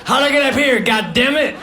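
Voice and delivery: feigned surprise. Pretend. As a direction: pretend you got here by accident. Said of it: "act like I got there accidentally".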